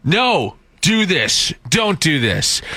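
imitating blunt German commands; direct German manner. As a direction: give orders like a very direct German. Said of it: "it's just very, like".

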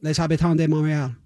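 "Les Habitants de Montréal" run together loosely; slurred. Real, not acted. Explaining what Habs means, "Les Habitants de Montréal" slurred. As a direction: slur through "Les Habitants de Montréal", half the sounds blurred. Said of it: "slurred half of that".

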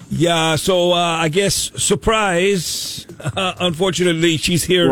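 bad fake Canadian accent; a hammy Canadian accent. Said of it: "the worst Canadian accent ever".

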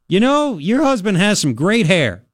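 retold call to another room; retold yell. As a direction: call it out slowly, without real shouting. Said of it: "I yelled to my wife".

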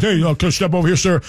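mock polite screener; lightly put-on friendly request; friendlier agent voice. Shown as a demonstration. Showing the screener how to sound friendlier, lightly put on. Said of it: "put some face in your voice".

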